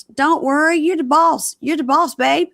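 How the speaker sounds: high, loud mock placating; hammed-up eager-to-please husband; appeasing husband imitation. Voicing husband appeasing his partner.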